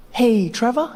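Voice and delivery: high, tentative little call; voice of the body. Retold or imitated. Body calling its owner at breakfast, high tentative voice. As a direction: sneak in with a sly request. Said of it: "my body was like".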